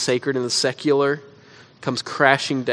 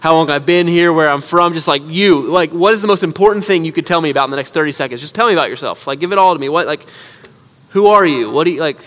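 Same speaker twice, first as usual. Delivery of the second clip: exasperated inner rant; 3 semitones higher, 6 dB louder than usual. Retold or imitated. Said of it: "And I'm like".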